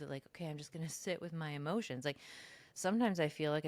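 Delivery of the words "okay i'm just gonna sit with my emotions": mock serene calm. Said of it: "like, this smooth".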